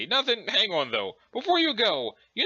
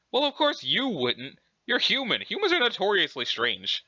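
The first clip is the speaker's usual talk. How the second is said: lilting, prim mock-British; Urania Umbra; 3 semitones higher than usual. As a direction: put on a haughty British character voice. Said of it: "pretending to be British".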